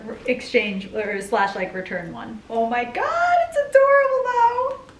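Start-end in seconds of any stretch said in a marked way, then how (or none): 2.5-4.9 high, louder gushing squeal; excited squeal. Real, not acted. Vlogger gushing to viewers over a jacket, high excited squeal. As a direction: squeal it like the cutest thing ever.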